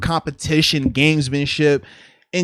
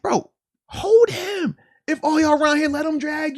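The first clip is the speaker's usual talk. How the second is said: mock teammate call; 8 semitones higher than usual. Acting teammate shouting on tackle.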